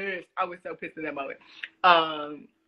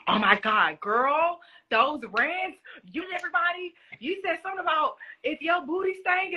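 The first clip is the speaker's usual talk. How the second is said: high, excited mom voice; mama gushing about the rants; high-pitched excited mom impression; imitating mom; 10 semitones higher than usual. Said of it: "my mom was like".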